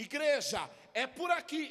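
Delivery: loud, calling-out voice.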